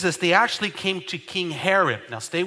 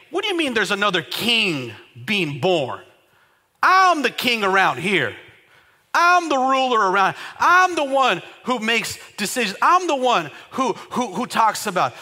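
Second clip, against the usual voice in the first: mock angry King Herod; 3 semitones higher, 3 dB louder than usual.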